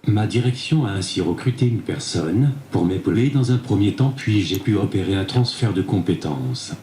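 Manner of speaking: synthetic tablet voice; text-to-speech reading. Real, not acted. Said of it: "c'est grâce à cette tablette". (voix de synthèse)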